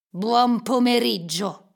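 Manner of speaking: loud, slow, weighted BUON POMERIGGIO; pointed dismissal. A narrator's reading. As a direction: lean hard on each word of "Buon pomeriggio". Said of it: "sottolineò Scrooge". (congedo scandito con enfasi)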